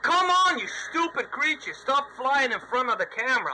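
exasperated shout at a bug; annoyed yell. Real, not acted. Gamer yelling at a bug in front of the camera, annoyed. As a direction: snap at the bug in the lens.

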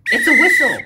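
high, loud full shout; yelling over noise. Acted. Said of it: "Wanda yelled over the noise".

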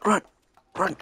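panicked high scream, running away; being chased. Real, not acted. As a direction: shriek like it's right behind you. Fleeing a monster in game.

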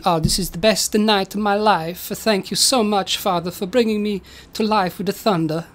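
lightly voiced Italian-accented storybook son; Roberto voice. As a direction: play a grateful creation with a hint of Italian. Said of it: "Roberto says to".

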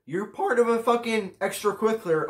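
building from a light mock protest to a high one; hammed-up whoa-whoa from a pretend critic; mock objecting listener. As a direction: voice the imagined objector with mock alarm. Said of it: "you might be thinking".

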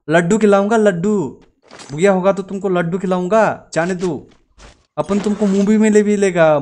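playful begging, bribing the enemy with treats; hammed-up plea to spare him; mock pleading with enemy. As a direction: beg them to let you pass, half joking. Pleading with enemy not to kill.

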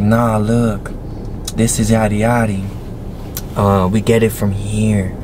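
lightly put-on, drawn-out girl's delivery; imitating his ex. Storyteller quoting his ex explaining the balloon, lightly mimicked. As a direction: mimic how she talks, in no hurry. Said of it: "She said it just like that".

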